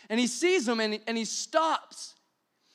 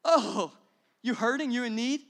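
mock shallow Christian; 3 dB louder than usual. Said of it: "walking around going".

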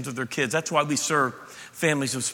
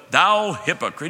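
mock old-English Jesus; slower than usual. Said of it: "Jesus didn't go".

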